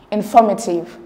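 "informative" with the stress on "for". Shown as a demonstration. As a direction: lean on the second syllable, in-FOR-mative. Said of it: "the stress is on for".

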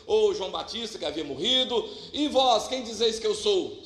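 usual speaking voice

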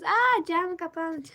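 lightly acted dismay, slow drawn-out "Aa"; mock surprise. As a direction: imitate viewers' surprise, stretched, without raising volume. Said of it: "Ondan sonra da herkes". (yapmacık, hafif bir şaşkınlık)

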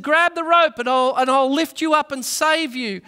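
high, loud call from above; shouting down. Retold or imitated. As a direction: shout down over the rotor noise. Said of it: "the pilot shouted down to him".

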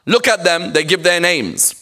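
lightly acted reproach; disapproving critic. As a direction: act out a community member tutting at donors. Acting out critics of named donors.

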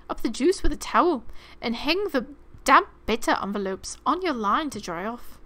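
lightly put-on British narration; playful, imperfect British accent; mock British accent. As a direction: read it in an amateur British accent. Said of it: "It's an awful accent".

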